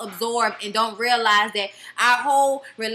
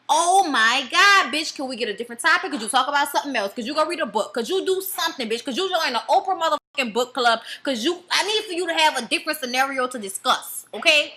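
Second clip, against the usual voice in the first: exasperated. Real, not acted. Vlogger ranting at a singer, fast and fed up. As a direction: throw question after question, totally over it. Fed-up rant at cast member.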